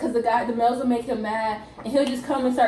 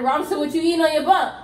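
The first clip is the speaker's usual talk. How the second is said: mock calling out; 4 semitones higher, 5 dB louder, faster than usual. Acted calling out of a recruit.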